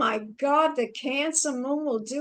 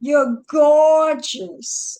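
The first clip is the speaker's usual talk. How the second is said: gushing; 5 dB louder, much slower than usual. Real, not acted. Host gushes, drawn out.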